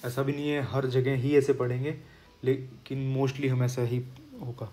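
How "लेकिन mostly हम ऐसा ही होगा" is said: whisper. Real, not acted. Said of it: "explains rule".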